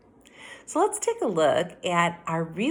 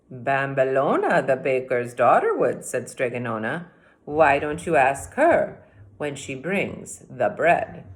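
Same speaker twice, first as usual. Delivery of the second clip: lightly voiced witch; 4 semitones lower, 3 dB louder than usual.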